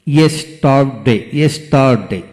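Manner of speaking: ইয়েস্টারডে in three distinct beats; syllable by syllable. Shown as a demonstration. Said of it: "যতটুকু অংশ একসাথে উচ্চারণ করা যায়".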